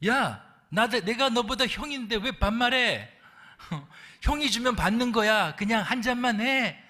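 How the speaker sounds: a hammed-up furious elder brother; angry senior. Senior worker scolds the newcomer, mock angry and loud. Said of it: "불가같이 화를 냅니다".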